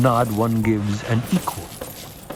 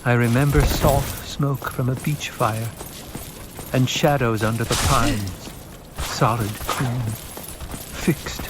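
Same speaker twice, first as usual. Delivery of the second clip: reciting a poem; 3 semitones higher than usual. Acted. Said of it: "Jessica began to recite".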